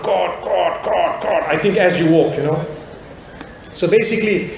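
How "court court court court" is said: high heels clicking. Retold or imitated. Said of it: "and they make a sound".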